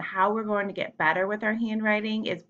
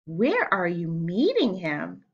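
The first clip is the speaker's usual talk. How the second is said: slow, nervous snake question; slower than usual. Acted. Snake asking the mouse warily, slow and nervous. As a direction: ask it warily.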